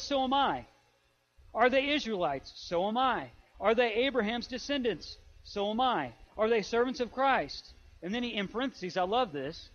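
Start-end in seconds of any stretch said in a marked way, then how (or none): 0.0-7.7 emphatic, rapid-fire challenge and answer; mild rant. Retold or imitated. Preacher voicing Paul's defense against the super apostles, mild rant. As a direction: fire off rhetorical questions like a restrained rant. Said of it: "it seems like a rant".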